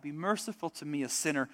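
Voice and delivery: hushed, humble plea for mercy; a sinner quietly begging for mercy. Retold or imitated. Tax collector begging God for mercy, softly pleading. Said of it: "God cries out".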